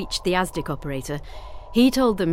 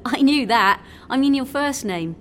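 higher, louder, amused reply; laughing; 6 semitones higher, 4 dB louder than usual. A narrator's reading. Ace teasing the sailor about his name, laughing. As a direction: speak up straight out of a laugh. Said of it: "she laughed".

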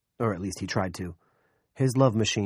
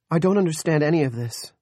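wailing; 9 semitones higher, 7 dB louder than usual. Acted. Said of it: "Carolyn wailed".

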